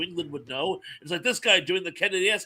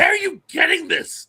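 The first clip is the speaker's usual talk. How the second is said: high, loud mock disbelief; incredulous; 10 semitones higher, 5 dB louder than usual. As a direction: blurt it out in baffled amazement. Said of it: "And I'm like".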